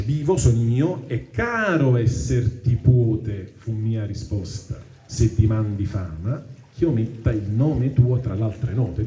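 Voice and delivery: slow, measured reading of Dante's verse; poem recitation. Acted. Teacher reading the Inferno to the class, measured recitation. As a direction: recite the tercets with weight.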